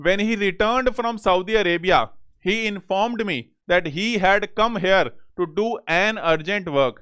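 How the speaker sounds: reads the sentence out very slowly; unhurried reading, word by word; slow dictation reading. Shown as a demonstration. Teacher reading an exam question aloud, very slow.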